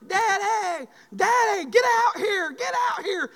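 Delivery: a daughter yelling from the back door; Kaylee hollering. Retold or imitated. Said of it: "she hollered, started hollering".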